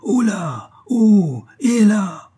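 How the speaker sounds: high, loud call down a chimney; long hailing shout into the flue. A narrator's reading. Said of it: "cria dans le tuyau".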